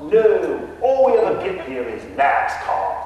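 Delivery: hammed-up English gentleman ghost; mock English accent. Ghost Nigel answers the realtor in a fake English accent. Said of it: "a Texan trying to emulate an Englishman".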